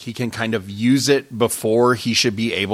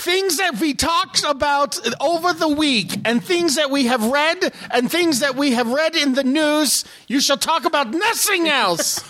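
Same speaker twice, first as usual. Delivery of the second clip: high-pitched mock German proclamation, accent slipping; badly kept German accent, pitched way up; yelled fake accent; 13 semitones higher than usual. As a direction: yell it like a hammy German announcer. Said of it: "It's mostly just yelling".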